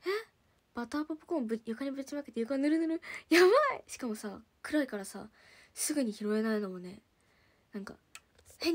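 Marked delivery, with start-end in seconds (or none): 3.3-3.8 sudden loud yelp of alarm; startled shout. Real, not acted. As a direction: blurt it out in alarm. Spilled popcorn on floor.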